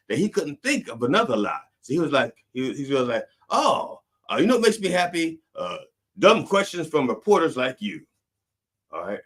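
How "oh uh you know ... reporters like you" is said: high-pitched put-on answer; mock candidate's retort. Imitating a candidate answering reporters, high mocking voice. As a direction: pitch it way up, stalling on "uh".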